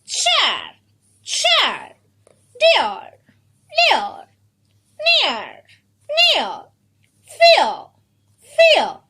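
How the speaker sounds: each word one syllable with a steep fall; blended word drill. Shown as a demonstration. Teacher repeats words once again, drilled blends. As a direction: recite "chair", "Dear", "Near", "Fear" singly, pitch dropping. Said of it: "Once again".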